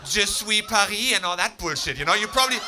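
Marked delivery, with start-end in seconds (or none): 0.0-1.1 slow, loud, mock-solemn chant; mock solemn slogan. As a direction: drag out the slogan, mocking it. Mocking slogan, slow shout.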